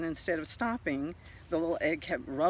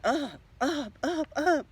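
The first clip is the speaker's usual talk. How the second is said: each up climbing higher and louder; rising up; 9 semitones higher, 6 dB louder, slower than usual. Acted. Narrator follows the egg flying up, pitch climbing. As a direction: voice soaring with the egg.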